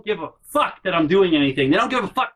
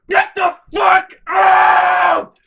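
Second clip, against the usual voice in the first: screaming at full force, much higher and louder, slow; furious shout; 9 dB louder, much slower than usual. Retold or imitated. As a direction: bellow it at them in pure rage. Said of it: "and I go".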